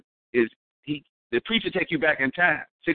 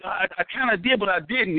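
higher, sheepish mock answer; hesitant mock guy; 6 semitones higher than usual. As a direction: fumble the answer like the crackhead. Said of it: "He's like".

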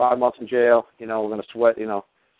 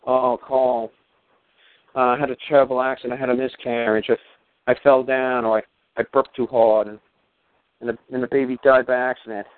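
higher, put-on innocent wife voice; wife feigning innocence to her husband, higher and mocking; 4 semitones higher than usual. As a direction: play the wife faking an accident story. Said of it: "you would have came home and told me".

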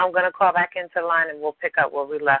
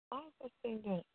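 call dropping out; 4 semitones higher, 21 dB quieter, faster than usual. Real, not acted. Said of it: "Did I lose you".

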